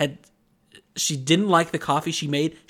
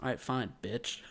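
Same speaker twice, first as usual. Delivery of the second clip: much softer muttered aside; muttered insult; 2 semitones lower, 12 dB quieter than usual. Retold or imitated. Clerk muttering an insult at the customer, soft mutter. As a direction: say it under your breath.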